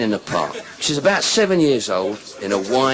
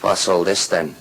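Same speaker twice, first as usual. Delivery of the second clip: Irish fella; 3 semitones lower than usual. Acted. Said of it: "the Irish fella said".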